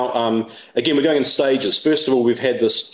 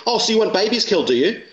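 high, indignant accusation; mock-quoting a hostile academic's jab; accusing jab; 9 semitones higher than usual. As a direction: fling it like a gotcha. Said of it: "She went".

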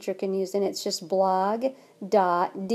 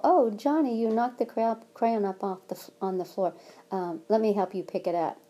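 gentle. Shown as a demonstration. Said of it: "it could be just something as simple".

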